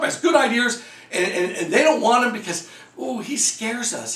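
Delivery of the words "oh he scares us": mock scared. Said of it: "I have neighbors that say that".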